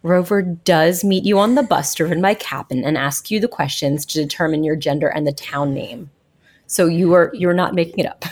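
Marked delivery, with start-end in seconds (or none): 0.0-6.1 glitchy robotic audio. Real, not acted. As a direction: voice breaking up like a robot. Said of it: "you sound like a robot again".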